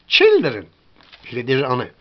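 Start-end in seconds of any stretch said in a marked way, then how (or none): 0.1-0.6 put-on "Children" with a short i vowel; short English i. Shown as a demonstration. Teacher showing the other sound of I, short vowel. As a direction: say "Children" with ih, not eye. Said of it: "c'est quelquefois comme".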